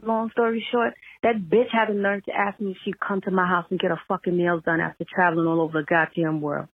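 real heated venting in one long run; coming in hot. Real, not acted. Caller venting about in-law's nerve, coming in hot. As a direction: fire off the complaint, indignant and emphatic. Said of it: "that came in hot".

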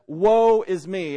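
loud, drawn-out mock lament; self-pity. Preacher voices the complaining way of asking, mock self-pity. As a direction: wallow in it, stretching the words out. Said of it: "There's one that says".

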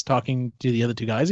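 normal talking voice

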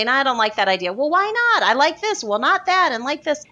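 a hint of a bickering couple; mock argument between partners. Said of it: "argue like this Jewish married couple".

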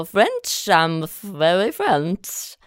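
imitating dad's barely-there French accent; drawn-out French-accented boast; a hammed-up French accent, stretching the last words; mock Frenchman. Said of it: "I like your French man".

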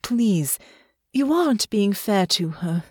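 mild, reasoning appeal; calm them down gently; placating. Acted. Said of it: "Alex said in a placating tone".

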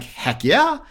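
high, bright heck yeah; delighted quick yes; eager yes. Retold or imitated. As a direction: jump at the offer. Eager yes to job offer.

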